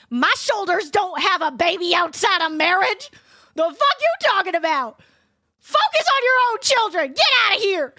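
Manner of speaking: building from firm to a loud high yell; retold furious comeback. Talking back to her judgmental godmother, angry yell. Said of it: "I was like".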